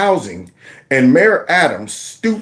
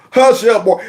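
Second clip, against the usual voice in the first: lightly mimicked Southern twang, pitched up; mock a Southern twang; imitated Southern twang; 5 semitones higher than usual. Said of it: "he had the Southern twang accent".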